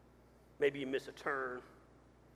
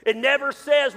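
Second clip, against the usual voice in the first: much higher and louder, punching says; sudden loud burst; 9 semitones higher, 15 dB louder than usual. Shown as a demonstration. Pastor ramps up for his congregation, loud burst. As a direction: leap up loud to sell the contrast. Setting up GPS contrast.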